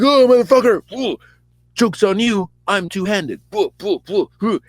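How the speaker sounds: high, loud-starting mock fighter's taunt; Saul. Storyteller as Saul losing a sword, mock fighting voice. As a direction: taunt between swings with combat cries.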